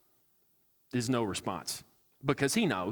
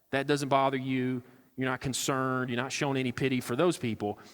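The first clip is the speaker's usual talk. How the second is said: sarcastic God. Retold or imitated. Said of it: "I'm adding a little sarcasm here".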